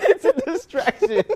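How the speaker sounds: high floating laughing voice; mock floaty voice. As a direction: imitate her distracting noise. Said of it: "she does this thing".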